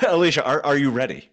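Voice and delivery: hyped-up game show host; excited. Real, not acted. Host hypes the lightning round.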